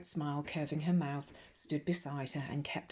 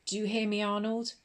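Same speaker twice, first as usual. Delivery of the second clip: put-on high, loud rebuke to one boy; sharp warning; 6 semitones higher, 4 dB louder than usual. A narrator's reading. Headmistress singling out a naughty boy, loud and sharp. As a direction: pin Arnold down with it.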